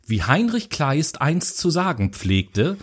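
slow, stilted, self-important quote; pompous quoting. Retold or imitated. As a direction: sound grand while quoting a classic. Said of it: "warum redet der so komisch?".

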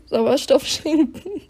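Sauerstoff schenken said again slowly, with a laugh; laughing redo. Real, not acted. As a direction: laugh it clean on the second try.

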